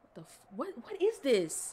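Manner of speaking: high, loud jolt of fright; a real jumpscare yelp; startled cry. Real, not acted. Streamer jolted by a jumpscare, crying out in fright.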